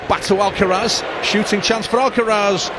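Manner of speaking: loud, rising commentary; excited play-by-play. Real, not acted. Commentator sees Alcaraz in space, loud and building. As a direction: build urgently toward the shot. Shooting chance.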